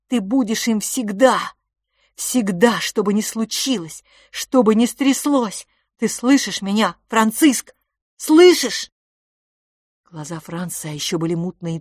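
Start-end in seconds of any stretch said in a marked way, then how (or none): 0.1-7.7 pleading harder and louder; rising plea. Acted. Fil urging his brother Franz, a desperate rising plea. 8.2-8.9 high, loud anguished cry; desperate cry. Acted. Fil crying out to the stunned Franz, anguished. Climax of the plea.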